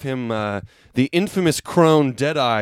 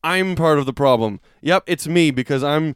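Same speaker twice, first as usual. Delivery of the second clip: sarcastic. Retold or imitated. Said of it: "in the sarcastic t-, way".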